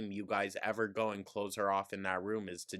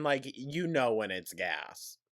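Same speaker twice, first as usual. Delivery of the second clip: ordinary talk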